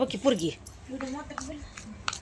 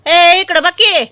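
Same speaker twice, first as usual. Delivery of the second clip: calling out; 5 semitones higher, 9 dB louder, much slower than usual. Real, not acted. Calling toddler to look.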